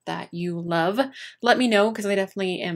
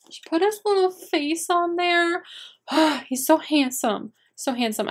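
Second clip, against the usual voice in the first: choked up; 9 semitones higher than usual. Real, not acted. Tearful over dead pet's portrait.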